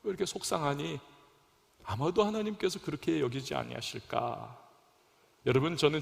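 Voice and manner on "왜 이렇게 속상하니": subdued, let-down murmur to oneself; God's disappointed voice. Acted. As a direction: lightly voice a saddened, reproachful God. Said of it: "하나님께서 아마도 생각하실 것 같아요".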